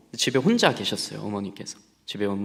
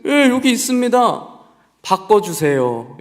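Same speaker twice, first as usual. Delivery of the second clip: much higher and louder, slow; lively teacher voice; 9 semitones higher, 9 dB louder, slower than usual. Retold or imitated. Teacher on the phone, hammed-up cheerful. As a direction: sing it out like a teacher.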